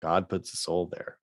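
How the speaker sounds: a hint of a Southern preacher accent. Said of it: "stop doing Southern voices".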